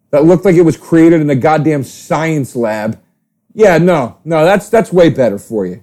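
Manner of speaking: mock the healthy eaters; sarcastic mockery. Mocking salad-eaters sarcastically.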